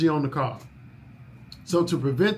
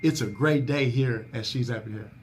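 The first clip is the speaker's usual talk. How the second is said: proper phone greeting; 3 semitones lower than usual. Shown as a demonstration. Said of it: "We gotta always answer the phone with".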